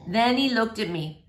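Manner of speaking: gentle, lively read-aloud voice; story reading for children. A narrator's reading. Teacher reading a chapter book to boys and girls, lively read-aloud. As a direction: read it like story time for kids.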